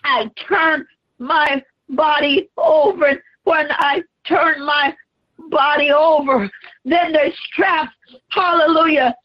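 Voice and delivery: preached Jesus, straining then crying out; Jesus on the cross. Acted. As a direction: shout through the weight of the cross.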